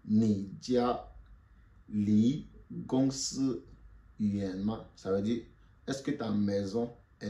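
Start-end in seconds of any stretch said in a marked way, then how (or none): 0.1-4.9 slow, syllable by syllable; slow model. Shown as a demonstration. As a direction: drill it for the class to repeat. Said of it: "Répétez après moi".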